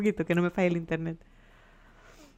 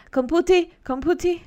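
playful singsong; 9 semitones higher, 3 dB louder than usual. Pretend. Mock-voicing a computer name.

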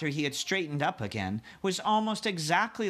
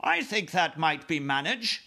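smiling queen; 4 semitones higher than usual. Acted. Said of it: "the Queen answered, smiling".

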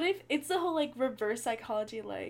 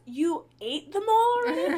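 high, loud, surprised question; surprised mom; 10 semitones higher, 8 dB louder than usual. Retold or imitated. Friend imitating her mom, loud and high surprised. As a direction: squeal the mom's disbelief. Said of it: "And she goes".

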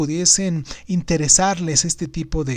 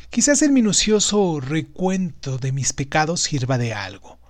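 story narration; 2 semitones lower than usual. A narrator's reading. Reads the story aloud.

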